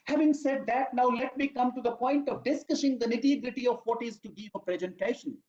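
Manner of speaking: lifted, announcing voice for "Having said that"; signposting phrase demo. Shown as a demonstration. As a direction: sound the transition clearly so listeners hear it. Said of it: "you say".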